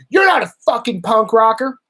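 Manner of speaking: imitating an online critic's yell; mock shout. Quoting critics who deny he is punk, mock shouting. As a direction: shout it like an angry commenter. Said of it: "people will be like".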